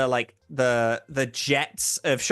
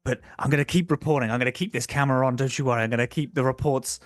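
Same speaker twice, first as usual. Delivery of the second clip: fast, breathless-paced report to camera; lightly acted doomed reporter rushing last words; determined found-footage reporter; faster than usual. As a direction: rattle off a farewell to camera. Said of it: "reporter who's Blair Witch projecting".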